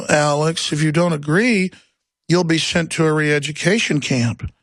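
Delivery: soft, lisping, condescending sneer; mocking a soft-spoken know-it-all. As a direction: sound like a smug fake intellectual. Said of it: "you talk real soft and condescending and lisping".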